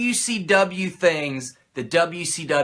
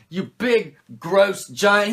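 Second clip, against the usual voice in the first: bad Hogan impression; much slower than usual. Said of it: "I can't do a good Hogan impression".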